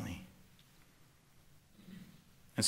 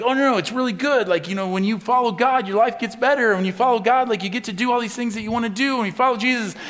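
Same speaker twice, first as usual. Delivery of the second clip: high, loud, over-eager sales pitch; mock-enthusiastic church pitch; eager selling; 8 semitones higher, 8 dB louder than usual. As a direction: oversell it like a salesman. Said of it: "we try really hard to do that and make it like".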